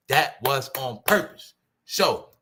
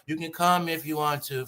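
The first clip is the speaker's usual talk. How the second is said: lightly imitated rapper; a hint of a rapper's way of talking; 3 dB quieter than usual. Showing no bass in their voice, lightly imitated rapper. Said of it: "How a rapper talk?".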